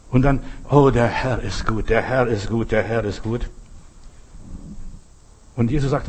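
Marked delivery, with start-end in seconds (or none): 0.7-3.5 devout praise fading. Acted.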